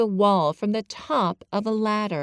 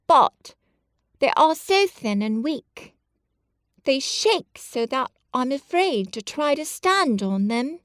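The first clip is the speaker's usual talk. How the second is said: put-on higher, anxious boy's voice; frail fearful boy; 7 semitones higher than usual. Colin tells friends his legs shake, anxious. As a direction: confess a fear, worried.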